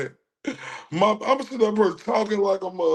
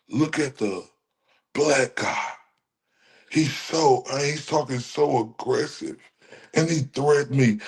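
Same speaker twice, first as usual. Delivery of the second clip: mock Karen; 5 semitones lower than usual. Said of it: "ready to say".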